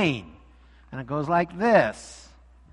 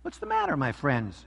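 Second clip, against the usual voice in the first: kindly; 4 semitones lower, 6 dB quieter than usual. Acted. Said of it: "she asked kindly".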